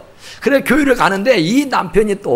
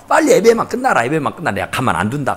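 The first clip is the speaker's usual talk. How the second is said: seething inwardly; 4 semitones lower, faster than usual. Retold or imitated. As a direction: imitate a husband fuming to himself. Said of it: "속에서 막 끓어오르는 거예요". (속으로 끓는 남편처럼 낮게 벼르기)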